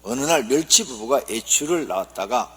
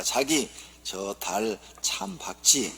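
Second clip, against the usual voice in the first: dreamy Seoul wife; 4 semitones lower, 3 dB quieter, much slower than usual. Acted. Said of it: "서울 아내가".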